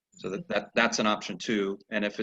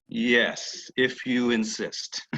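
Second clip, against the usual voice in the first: mock reluctant; much slower than usual. Rider grandly gives in.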